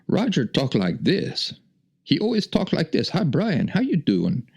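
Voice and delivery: high-pitched mock heavy Asian accent; hammed-up Asian accent, pitched well up; Roger's Asian accent. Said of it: "He spoke with a very heavy Asian accent".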